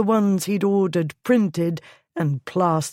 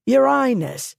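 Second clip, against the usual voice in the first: crowd cry; 7 semitones higher, 3 dB louder than usual. A narrator's reading. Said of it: "took up the cry with variations".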